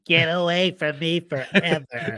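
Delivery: slow whiny imitation; drawn-out mock whine. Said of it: "That whiny little voice".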